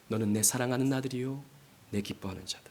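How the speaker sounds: softly spoken divine blessing; tender voice of God. Acted. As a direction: lay the words down gently like a father's assurance. God's words to the Son.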